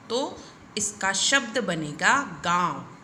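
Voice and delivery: गाँव said slowly with the nasal आँ; nasal vowel demo. Shown as a demonstration. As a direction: draw out गाँव with the vowel through the nose. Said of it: "इसको बोलने का तरीका भी अलग हो जाएगा". (गाँव धीरे से, नाक से)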